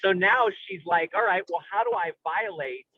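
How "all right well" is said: normal talking voice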